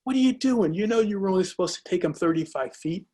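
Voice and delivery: mock angry outburst, starting high; retold telling-off. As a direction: replay the friend snapping at the dive master. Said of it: "goes off on him".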